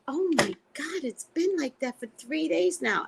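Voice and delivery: acted-out relieved venting; retold exasperation. Retelling waitress's exasperated reply.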